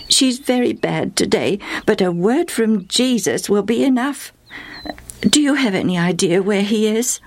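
eager mother hoping for a cure; anxious mother. Acted. Mother Justa asking her friend where Jesus is, mildly anxious.

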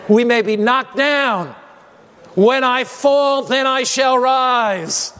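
slow triumphant pulpit climax; rousing preaching. Acted. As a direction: proclaim it to the congregation, stretching the last words.

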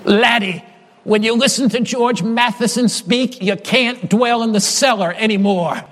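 "cellar" with a hint of Scottish brogue. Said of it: "with this Scottish brogue".

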